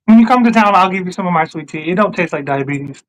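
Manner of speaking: low, sliding, suggestive offer; flirty drawl. Real, not acted. Offering a friend some sweet tea, accidentally seductive. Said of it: "came off as if you were gonna try and dick me down".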